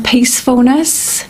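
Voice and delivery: ordinary delivery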